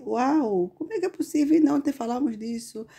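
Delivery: astonished, pitch leaping up on the question; mock amazement at the coincidence; amazed exclamation. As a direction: gasp it out in wonder.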